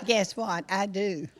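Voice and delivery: laughing. Real, not acted. Jokes about loving red.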